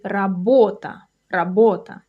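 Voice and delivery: работа stressed on the middle syllable, ра-БО-та; teacher demonstrating работа with a long stressed middle; stress on second syllable. Shown as a demonstration. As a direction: lean on БО in работа, said as a model. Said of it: "The stress is on the second syllable".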